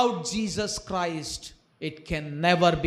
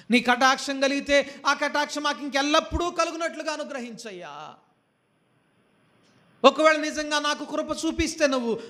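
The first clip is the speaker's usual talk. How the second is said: pleading prayer; 5 semitones higher than usual. Acted. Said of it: "అని ప్రార్థన చేస్తా ఉన్నాడు".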